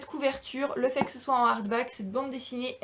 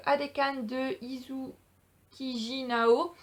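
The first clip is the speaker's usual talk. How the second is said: Japanese accent; much slower than usual. Real, not acted. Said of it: "Mon accent japonais ne s'est toujours pas amélioré".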